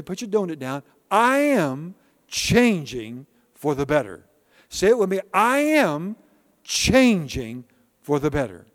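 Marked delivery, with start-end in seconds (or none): 1.1-4.2 slow, drawn-out affirmation; call and response. Shown as a demonstration. Pastor leading the church in a declaration. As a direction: lead them word by word.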